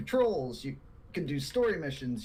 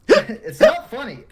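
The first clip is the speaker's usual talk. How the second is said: laughing hard while talking; can't stop laughing; 11 semitones higher, 12 dB louder, slower than usual. Real, not acted. Laughing fit mid-answer.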